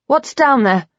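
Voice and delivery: a frightened woman asking; high, anxious. A narrator's reading. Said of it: "my voice high and anxious".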